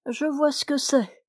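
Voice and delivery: calmly wise, nothing can upset him; philosophical serenity. Acted. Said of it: "d'un ton de sérénité philosophique". (ton de sérénité philosophique, serein et entendu)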